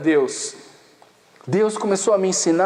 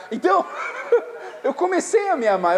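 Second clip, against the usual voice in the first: laughing; 8 semitones higher than usual. Real, not acted. Telling how he learned to love himself, chuckling.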